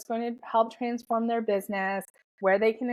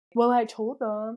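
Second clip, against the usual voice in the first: casual, laid-back dude-bro voice. Recounting a thought about new clients, slipping into a bro voice. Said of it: "my like bro voice there".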